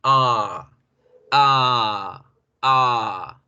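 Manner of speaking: "A" drawn out and held; long A. Shown as a demonstration. Teacher demonstrating the stretched A again. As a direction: hold the "A" for two or three beats.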